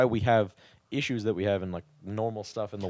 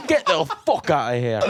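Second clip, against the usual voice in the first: laughing; 7 semitones higher, 4 dB louder than usual. Real, not acted. Laughing at own impression.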